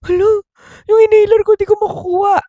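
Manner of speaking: high, startled mock panic; shocked squeal. Kid realizing she can't get her inhaler, high startled squeal. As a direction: gasp it out, caught off guard. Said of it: "Gulat daw siya".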